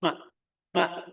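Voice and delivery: MA cut short and small; wrong demo. Shown as a demonstration. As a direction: say MA as a tiny, stopped syllable.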